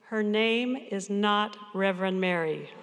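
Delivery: slow, deliberate imitation of a stern small child; mock stern. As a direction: correct her firmly, word by word, as a stern grandson. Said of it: "and very sternly said".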